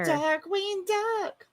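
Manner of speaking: very slow, savoured name; drawn out. Real, not acted. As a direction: stretch the name out fondly.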